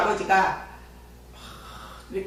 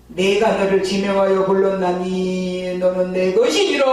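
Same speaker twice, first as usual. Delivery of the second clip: solemn, weighty divine pronouncement, a touch louder; voice of God; 3 semitones lower, 4 dB louder than usual. Retold or imitated. God speaking to the young believer, solemn and weighty. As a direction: intone it like a heavenly calling. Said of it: "막 이러시는데".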